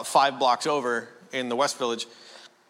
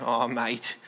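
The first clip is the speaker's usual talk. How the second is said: low-key Australian father-in-law; Australian accent; 4 semitones lower, 4 dB quieter than usual. Retold or imitated. Father-in-law phones his son-in-law, imitated Australian accent. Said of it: "My wife is Australian".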